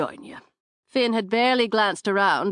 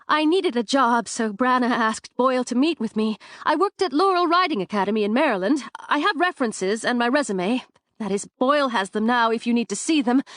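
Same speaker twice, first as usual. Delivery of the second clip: rushed, higher nervous babbling; nervous chatter; 4 semitones higher than usual. Acted. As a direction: gush it out fast and high, nerves taking over. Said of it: "She tends to chatter on when she's nervous".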